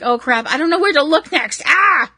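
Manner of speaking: high, overwhelmed fan ending in a yelp; a light hammed-up yelp of overload; mock panic. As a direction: play a fan who can't keep up, then cry out. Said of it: "it's also gonna be like".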